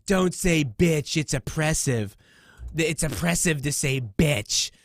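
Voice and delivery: slow, drawn-out mockery of a preachy tweet; mocking whiny quote. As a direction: parody the self-righteous poster, stretching every word. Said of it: "and they're like".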